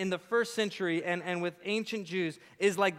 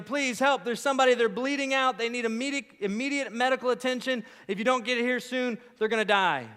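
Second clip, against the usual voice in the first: higher, pressing emergency plea; urgent dispatch call; 6 semitones higher, 3 dB louder than usual. Acted. Caller pleading for an ambulance, urgent and higher. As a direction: rush the alarm of a frantic caller.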